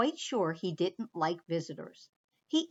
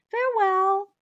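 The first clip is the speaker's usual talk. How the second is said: high, louder chirpy mouse; a bright little goodbye; mouse farewell; 10 semitones higher, 7 dB louder than usual. Acted. Mouse leaving.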